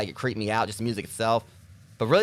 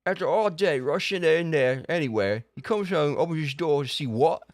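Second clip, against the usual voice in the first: slow, higher put-on narrator; lightly higher Wonderland voice; storybook character voice; 5 semitones higher than usual. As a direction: tell it like a gossiping Wonderland creature. Reads game story in put-on voice.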